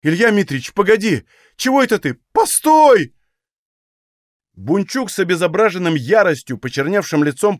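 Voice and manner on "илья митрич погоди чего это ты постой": rising, ever higher panicked pleading; frightened. A narrator's reading. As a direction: beg him to stop in alarm. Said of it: "испуганно затомошился".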